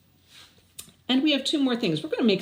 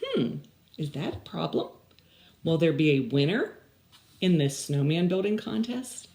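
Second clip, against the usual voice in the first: puzzled Desmond. Acted. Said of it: "he said".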